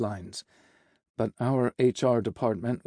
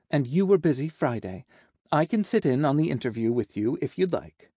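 helpful assistant, slightly lifted; lightly voiced secretary; 3 semitones higher than usual. Secretary offering to join the boss's interview, lightly obliging.

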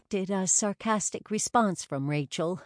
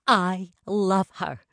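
a slow, delighted exclamation; exclaiming; 5 dB louder, slower than usual. A narrator's reading. Rachel gushing over her new friend, slow delighted exclamation. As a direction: gush it out, slowly. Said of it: "Rachel exclaimed".

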